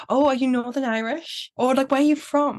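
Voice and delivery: lightly mimicked curiosity; curious locals. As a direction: quote a nosy local asking, voice lifted. Voices locals questioning her origin.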